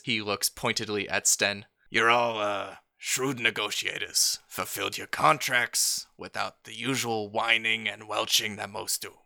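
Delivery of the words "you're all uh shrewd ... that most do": Greasy Sal voice. Acted. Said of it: "As Greasy Sal does this".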